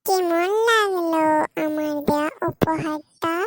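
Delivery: put-on slow, loud taunt at the two-timing boyfriend. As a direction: ram the gift home with a slow, loud sneer. After slapping the cheating boyfriend.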